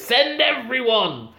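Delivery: high, drawn-out villain order; Russian terrorist. Retold or imitated. Mock Russian terrorist ordering everyone in, drawn out. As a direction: stretch it out like a hammed-up villain command. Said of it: "the Russian terrorist says".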